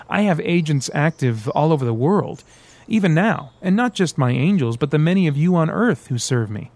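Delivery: lightly voiced devil boasting; boastful devil. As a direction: brag about his reach.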